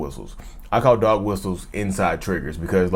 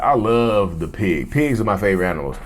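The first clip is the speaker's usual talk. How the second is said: calm baiting. Pretend. Narcissist baits partner at party.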